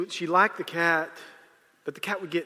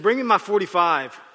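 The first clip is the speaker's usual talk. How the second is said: mother's demand, louder with a laugh in it; raised, emphatic quoted command; retold demand; 3 semitones higher, 6 dB louder than usual. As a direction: retell a firm order, amused and raised.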